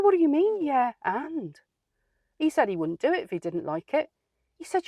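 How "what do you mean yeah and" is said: outraged disbelief. Retold or imitated. Outraged reply to manager.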